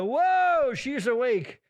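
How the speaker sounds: surprised anesthesiologist. Retold or imitated.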